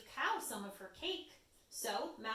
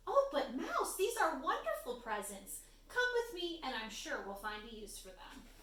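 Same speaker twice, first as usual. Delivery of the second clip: Little Bird voice; 3 semitones higher than usual. Acted. Bird comforts mouse.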